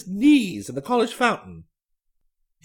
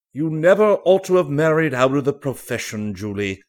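a lightly voiced hearty old fellow; old Danby, fondly; 7 semitones lower, 6 dB louder than usual. A narrator's reading. Old Danby gently reproaches Julie.

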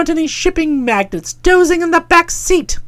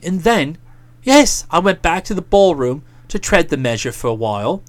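put-on lightly lowered, smooth talking young man; placating fiancé; 10 semitones lower than usual. A narrator's reading. Boko talking his fiancée down while explaining himself, smooth and placating. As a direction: soothe her while pressing his point. Boko's long defence, low voice.

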